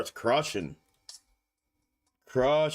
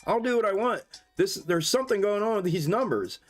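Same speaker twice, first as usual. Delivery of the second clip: mock defiant retort; 5 semitones higher than usual. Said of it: "and I'm like".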